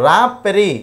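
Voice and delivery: "రాపెరీ" said as raspberry with silent P. Shown as a demonstration. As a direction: say "రాపెరీ" without sounding a separate P. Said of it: "ఇక్కడ మనం కూడా మనము P అనేది పలకమండి".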